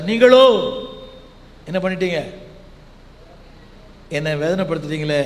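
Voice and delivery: a wounded God crying out to his people; God lamenting. Retold or imitated. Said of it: "தேவன் சொல்றார்".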